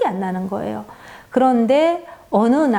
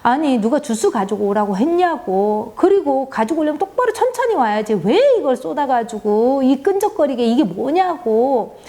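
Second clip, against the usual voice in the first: imitated scolding, rising higher as it goes; scolding mother; 3 semitones higher than usual. Friend scolding her child over spilled juice, mock angry. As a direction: nag the clumsy child, getting sharper. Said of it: "막 야단을 치는 거예요".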